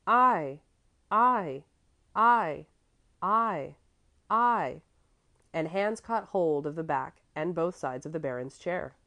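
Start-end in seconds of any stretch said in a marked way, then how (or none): 0.1-4.8 loud eager cries of I; children crying out. A narrator's reading. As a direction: shout it out eagerly like a crowd of kids. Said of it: "All the children immediately cried".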